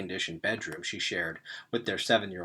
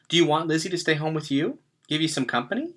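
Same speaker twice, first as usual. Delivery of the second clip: gentle mother's offer; 6 semitones higher, faster than usual. A narrator's reading. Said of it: "she asked".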